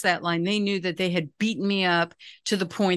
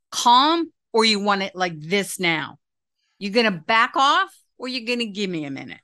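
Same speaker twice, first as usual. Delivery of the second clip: stern mom voice. Shown as a demonstration. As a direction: lay down the line, word by word. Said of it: "that tone of voice, like, totally scared me first".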